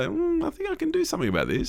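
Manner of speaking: put-on young singer-producer voice. Co-host mimics a young singer-producer pitching a beat, high and quick. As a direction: pitch it way up and rattle it off quick like a cocky producer. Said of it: "or a young producer might say".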